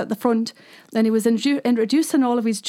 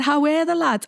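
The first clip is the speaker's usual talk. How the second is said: Geordie shout; 5 semitones higher than usual. Retold or imitated. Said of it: "And so I shouted".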